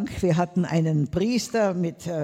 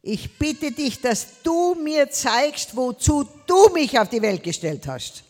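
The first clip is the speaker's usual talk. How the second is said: retold prayer; 5 semitones higher, 3 dB louder than usual. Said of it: "habe ich gesagt".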